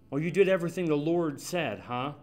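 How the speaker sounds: quick mocking sarcasm, rising; sarcastic. Preacher mocking Saul's claim, sarcastic. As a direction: needle him with mock disbelief.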